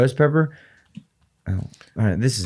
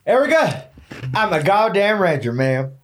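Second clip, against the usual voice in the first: tough rancher character. Acted. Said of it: "you gotta stay in character".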